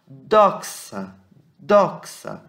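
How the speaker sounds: "Doxa" as DOK-sa, loud first syllable; Greek pronunciation model. Shown as a demonstration. Teacher modelling the Greek word for glory, "Doxa" as DOK-sa. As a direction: say "Doxa" carefully with a strong ks. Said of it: "tem um som de um S bem mais forte".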